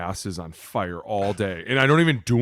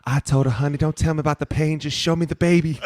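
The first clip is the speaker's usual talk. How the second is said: coach Ferguson impression; 6 semitones higher, 4 dB louder than usual. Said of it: "He'd be like".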